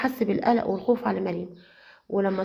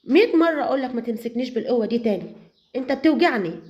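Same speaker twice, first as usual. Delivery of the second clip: slightly raised, mildly harsh; 3 semitones higher than usual. Acted. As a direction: push him off, hurt and cross. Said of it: "ردت عليه بعنف".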